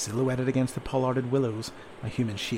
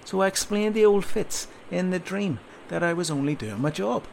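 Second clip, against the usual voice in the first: a lightly voiced sergeant lecturing a recruit, louder; gruff sergeant talking down to a soldier; stern sergeant; 5 semitones higher, 3 dB louder than usual.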